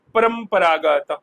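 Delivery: slow stressed word. Shown as a demonstration. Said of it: "teacher stresses key quiz word".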